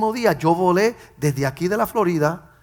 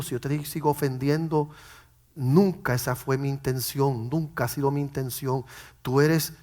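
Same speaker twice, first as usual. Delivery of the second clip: earnest apology; 3 semitones lower than usual. Retold or imitated. Man asking his children's mother for forgiveness, gentle and earnest. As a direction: apologise gently and sincerely, voice kept low.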